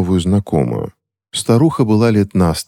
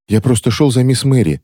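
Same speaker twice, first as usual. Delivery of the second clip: put-on sobbing boy; 8 semitones higher than usual. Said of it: "всхлипнул мальчик".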